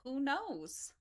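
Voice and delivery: a hint of Joanna Riggs saying it; Joanna Riggs quote. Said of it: "As Joanna Riggs would say".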